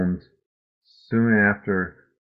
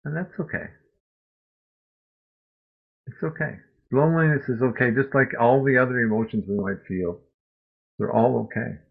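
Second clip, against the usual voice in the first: gentle self-acceptance; 3 semitones higher than usual. Shown as a demonstration. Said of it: "Just learn to say".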